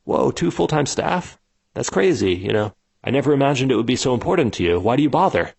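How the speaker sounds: be genuinely amazed; curious surprise. Retold or imitated. Founder digging into the customer's workflow, surprised and curious. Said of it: "digging beneath them".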